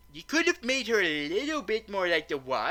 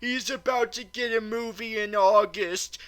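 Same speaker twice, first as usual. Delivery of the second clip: higher, pleading protest; mock pleading; 8 semitones higher than usual. Reviewer retells begging the villain to spare Shaun, high pleading. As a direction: beg the villain to stop, overdone. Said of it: "And I'm like".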